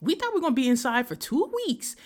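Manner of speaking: ranting, high and heated; fed-up rant. Real, not acted. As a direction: let the anger at the pandemic spill over. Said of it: "I am so fucking mad".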